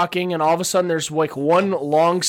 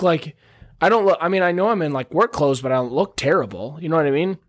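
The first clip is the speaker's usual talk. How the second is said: ordinary talk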